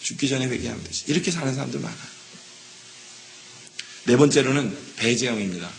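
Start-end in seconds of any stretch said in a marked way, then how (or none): 0.0-1.0 repeated much softer, almost to himself; softer echo. Retold or imitated. The same delaying person repeating it, quiet and offhand. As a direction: let it fall away quietly. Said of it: "이 사람이 있어요".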